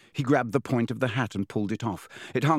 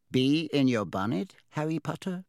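small, higher-pitched voice of a talking hat; 5 semitones higher than usual. A narrator's reading. Talking hat asks Harry what troubles him, small voice. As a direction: pipe up as a little voice in someone's ear. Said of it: "a small voice said in his ear".

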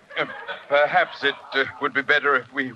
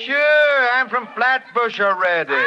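put-on loud high Brooklyn accent; 10 semitones higher, 4 dB louder than usual. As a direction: drop the posh, go full Brooklyn. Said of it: "since I came from Brooklyn myself".

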